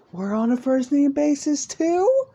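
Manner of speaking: very high, loud, hammed-up squeak; choked-up, disbelieving joy; tearing up, touched. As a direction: squeal it as if about to burst into happy tears. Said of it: "she starts to tear up".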